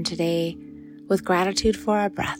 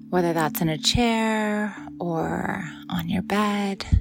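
whisper; slower than usual. Acted. Soft spoken meditation cue.

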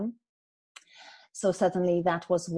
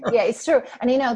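laughing through the words, louder; amused agreement with a laugh; chuckling yes it's true; 6 semitones higher, 7 dB louder, faster than usual. Real, not acted. Laughing after host's joke.

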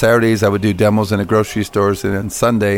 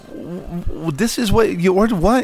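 imitating his own confusion; 10 semitones higher than usual. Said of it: "And I said".

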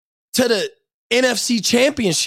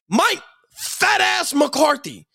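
slow angry call-out; much slower than usual. Real, not acted. Ranting at the coach.

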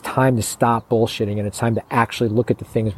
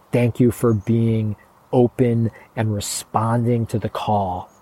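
slow, drawn-out thanks, voicing her energy; slow, earnest retelling of her gratitude; imitated heartfelt gratitude; slower than usual. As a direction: let each phrase of thanks stretch out. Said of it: "her voice intonation, the energy in her was just like".

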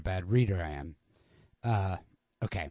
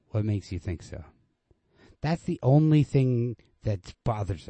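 steady, even literary reading voice; story narration; 4 dB louder than usual. A narrator's reading. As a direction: read the story plainly and evenly, letting dialogue lift. Reads Hemingway story aloud.

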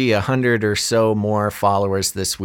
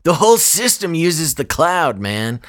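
mocking; 5 semitones higher than usual. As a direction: repeat it like it's absurd. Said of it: "This is the most ambiguous thing".

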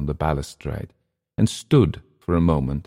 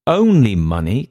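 incredulous, loud rising echo; disbelieving "Only money?"; surprised; 5 semitones higher, 5 dB louder than usual. Acted. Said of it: "eyebrows up, hands raised".

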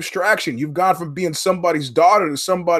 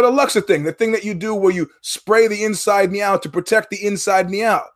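pitched up, insistent, spelling it out; exasperated explaining; 3 semitones higher than usual. Retold or imitated. Frustrated customer insisting to the service guy. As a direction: push harder, he's not getting it.

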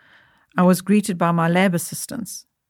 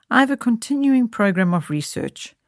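coolly; 5 semitones higher than usual. Acted. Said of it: "Coolly, without any trace of fluster".

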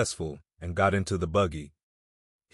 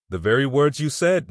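higher and louder, eager confirming; eager agreement; 6 semitones higher, 5 dB louder than usual. Acted. Friend eagerly confirming Nancy's words, excited. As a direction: jump in to back her up.

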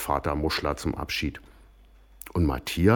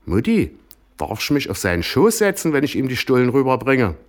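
put-on higher, pleading little-girl voice; begging girl; 7 semitones higher, 5 dB louder than usual. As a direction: ask sweetly and eagerly. Daughter begs mother, high voice.

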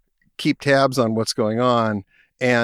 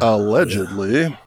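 news anchor voice; slower than usual. Pretend. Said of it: "my news anchor voice on".

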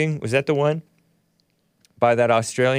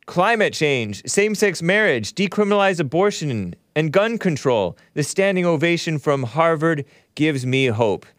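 higher, lightly mocking recital of a tweet; mock-earnest reading; 4 semitones higher than usual. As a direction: read it out with put-on admiration. Mockingly reads an admiring tweet aloud.

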